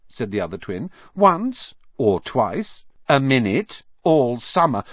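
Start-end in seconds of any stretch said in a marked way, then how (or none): 1.2-4.8 sarcastic teasing. Acted. Twin teasing Percy.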